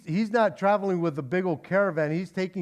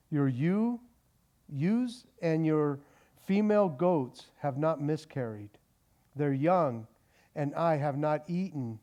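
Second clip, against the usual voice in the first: scripture reading; 3 semitones lower than usual. Acted. Preacher reading Genesis to the congregation, measured. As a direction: read the text deliberately.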